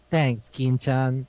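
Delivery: stretched-out mock thank-you; slow, deliberate thanks. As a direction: say it very slowly, imitating the character. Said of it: "he explicitly spoke like that".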